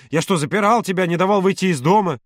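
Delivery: high, indignant challenge. A narrator's reading. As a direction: fire the question back indignantly. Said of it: "тем громче Володя".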